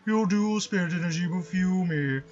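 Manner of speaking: slow, grand pompous villain. Pretend. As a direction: boom it out like a self-important master. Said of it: "pompous voice".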